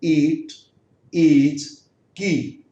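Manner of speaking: ईट, ईज, की each with a drawn-out ee; isolated long-vowel examples; long ee demo. Shown as a demonstration. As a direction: hold the long ee in ईट, ईज and की. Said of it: "long sound में देखिएगा".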